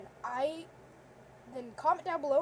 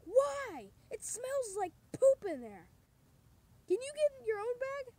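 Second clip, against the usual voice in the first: high puppet voice; 9 semitones higher, 3 dB louder than usual. Acted. Puppet argument in short film.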